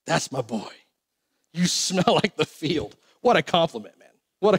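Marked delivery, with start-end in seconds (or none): 0.1-3.0 low, soft, pleased sigh of a dad; savouring approval. Acted. Father savouring the smell of his son, softly approving. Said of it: "liked it".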